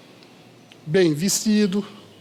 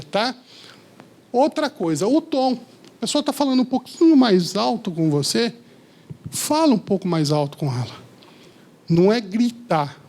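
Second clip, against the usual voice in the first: usual speaking voice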